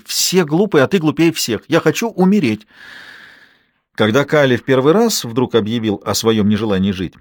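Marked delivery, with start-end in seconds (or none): 0.0-1.6 put-on higher, sulky childish yell; a boy hurling insults in a tantrum; hot-tempered shout. A narrator's reading. Boy in a tantrum yells at his mother. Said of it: "запальчиво крикнул Калли". 1.7-2.6 angry shout. A narrator's reading. Boy in a tantrum yells he wants to die. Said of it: "запальчиво крикнул Калли".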